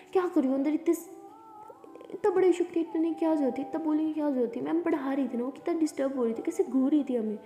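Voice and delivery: annoyed scolding. Acted. Lakshmi scolding Lily outside.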